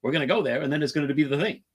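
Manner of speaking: lightly put-on old-movie North Atlantic accent; host teasing in a mock North Atlantic accent; fake North Atlantic accent. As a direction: play a hint of a 1940s film star's North Atlantic accent. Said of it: "This is fake accent".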